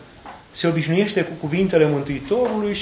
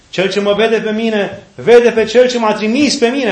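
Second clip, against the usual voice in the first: slow, loud and higher proclamation; crying out; 5 semitones higher, 7 dB louder, slower than usual. Retold or imitated. Jesus calling out before the supper, slow and loud. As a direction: proclaim it slowly over the crowd. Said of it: "a strigat și a zis".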